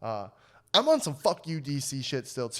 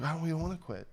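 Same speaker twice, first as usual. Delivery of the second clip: put-on old man voice; 3 semitones higher, 6 dB quieter, faster than usual.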